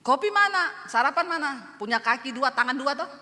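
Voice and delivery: bossy retold shout, easing toward the end; mock yelling. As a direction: demand it like a grumbling husband. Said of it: "Dia teriak".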